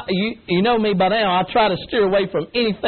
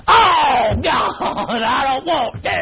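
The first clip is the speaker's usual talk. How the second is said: reluctant groan; much slower than usual. Retold or imitated. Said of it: "woke up and went".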